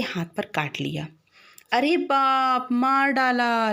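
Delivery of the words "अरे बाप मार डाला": mock cry of pain, slightly raised; a boy crying out as he's bitten; boy's yelp of pain. A narrator's reading. Bitten boy yelps to the house, mildly raised cry. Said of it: "लड़का ज़ोर से चीखा".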